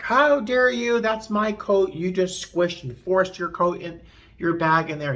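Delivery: high, loud indignant outburst; outraged passenger. Retold or imitated. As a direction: play the furious man whose coat got squished. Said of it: "the first guy lost his mind".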